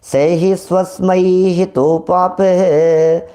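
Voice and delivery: slow, deliberate Sanskrit chant; slow chanted reading of a Sanskrit verse; scripture recitation. Shown as a demonstration. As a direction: intone each word of the verse carefully. Reads Sanskrit verse from text.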